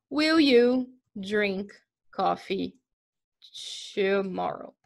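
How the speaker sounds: slow, careful example question; deliberate classroom example; slow teacher model. Shown as a demonstration. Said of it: "teacher demo of a question".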